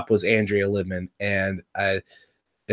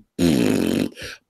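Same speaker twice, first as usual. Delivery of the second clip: low buzzing trill; imitated noise. Imitated noise finishing "I was too.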